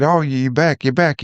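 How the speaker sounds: lightly voiced dad, glad to see his son back; mock happy dad. Son retells his bedbound father greeting him, mildly excited. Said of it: "he felt happy, he felt excited".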